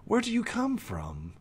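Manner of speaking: lightly voiced fox, lilting questions; curious fox. Fox questions an entertaining pony, lightly lilting curiosity. Game master plays curious creature.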